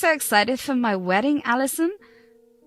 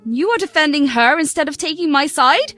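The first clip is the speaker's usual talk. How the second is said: higher, louder, "what" punched as she throws it back; furious retort; 4 semitones higher, 4 dB louder than usual. Acted. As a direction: fire the question right back at him. Daughter throwing question back.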